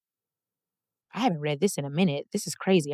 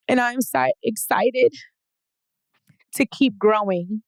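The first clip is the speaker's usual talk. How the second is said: tearful; 4 semitones higher than usual. Real, not acted. Emotional self-love after reading letter.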